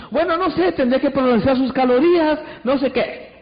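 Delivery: high, hedging, doubtful reply; a mock hesitant salesman; unsure seller. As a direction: stall without committing to anything. Hesitant salesman answers client.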